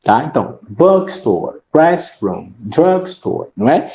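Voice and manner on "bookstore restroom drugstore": "bookstore, restroom, drugstore" with the first part strongest; first-word stress. Shown as a demonstration. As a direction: stress BOOK, REST and DRUG, the first part of each compound. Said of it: "a palavra mais forte".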